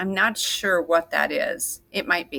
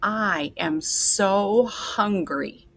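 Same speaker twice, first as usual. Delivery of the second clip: dictating slowly; 3 semitones higher, much slower than usual. Shown as a demonstration. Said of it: "let's write that sentence".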